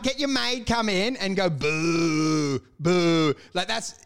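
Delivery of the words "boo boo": long mock jeer; slow pantomime boo; drawn-out boo. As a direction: boo like a heckler, dragged out. Demonstrates booing the maid.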